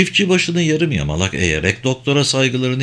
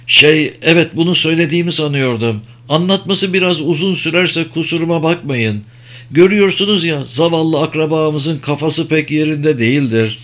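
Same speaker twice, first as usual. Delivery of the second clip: higher, nervous country farmer voice; anxious farmer; 5 semitones higher than usual. Acted. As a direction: voice a worried old farmer pleading. Farmer Arbin's voice continues. (endişeli, tiz sesli çiftçi)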